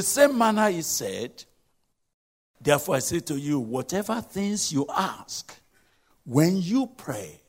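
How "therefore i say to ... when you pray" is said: firm, weighted reading of Jesus' words; emphatic scripture reading. Shown as a demonstration. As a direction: read it with complete authority. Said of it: "the way I'm reading it, it's so emphatic".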